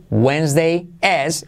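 "is" with an E-like vowel, slowly; slow "Wednesday is", the I of "is" near E. Shown as a demonstration. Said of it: "y como E". ("is" con la I como E, despacio)

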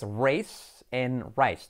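slow "race" and "rice", hissed final S; voiceless S. Shown as a demonstration. Teacher contrasts similar words, voiceless S. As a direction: end "race" and "rice" on a sharp S. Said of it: "es una S sorda".

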